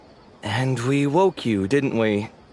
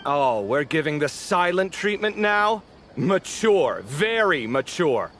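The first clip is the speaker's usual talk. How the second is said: sarcastic. Acted. Teasing the silent colleague.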